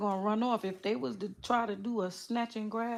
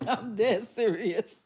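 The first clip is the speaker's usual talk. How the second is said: mock serious; slower than usual. Real, not acted. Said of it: "'cause I'm serious".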